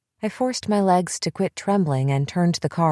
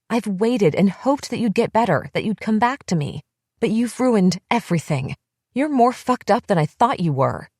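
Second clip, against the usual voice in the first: higher, bitter and raw, often slowed; furious outburst; 4 semitones higher than usual. Acted. Bethy refusing to calm down, bitter and furious. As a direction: unload years of resentment at her.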